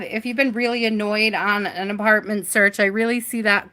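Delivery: talking with hiccups; hiccuping between words. Real, not acted. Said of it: "I got the hiccups".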